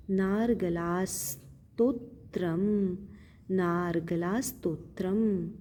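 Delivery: नारगला स्तोत्रम with र before ग; slow recitation. Shown as a demonstration. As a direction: spell out नारगला slowly. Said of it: "अर्गला, स-, आधा स है". (धीमा उच्चारण)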